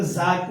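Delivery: ज with a buzzing z sound. Shown as a demonstration. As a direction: say जा with a buzz, like za. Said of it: "झंझनाहट की आवाज़ आएगी". (ज़ा गूँजती आवाज़ में)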